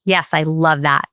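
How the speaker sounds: slow whispered "Yes, I love that". Real, not acted. Moved response to friends' story.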